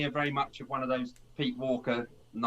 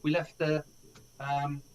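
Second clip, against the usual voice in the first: much higher, mock-scolding friends; mock friends' voices; 4 semitones higher than usual. Friends scolding the latecomer in a high mock voice. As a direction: squeak out the friends' telling-off. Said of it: "they say".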